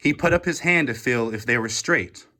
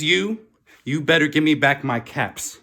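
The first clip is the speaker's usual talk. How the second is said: mildly angry, raised-pitch scolding; angry demand; 5 semitones higher, 3 dB louder than usual. Acted. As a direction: scold them like a cross peddler. Peddler scolding the monkeys.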